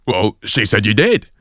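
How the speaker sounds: lightly imitated Irish accent, insistent; a touch of indignant Irish accent; angry Irishman. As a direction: argue back as an Irish fella. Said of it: "an Irish person is angry".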